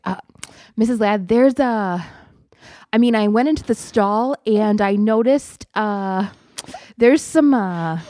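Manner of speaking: put-on halting, careful child's report with drawn-out pauses; stalling proper schoolboy. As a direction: imitate a hesitant little bookworm picking his words. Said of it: "he had to stall all the time".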